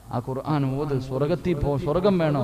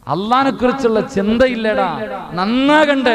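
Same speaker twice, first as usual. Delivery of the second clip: high, loud rebuking cry; fervent rebuke; 7 semitones higher, 9 dB louder than usual. Real, not acted. Preacher scolding the congregation, loud and high. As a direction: shout the reproach at the listeners.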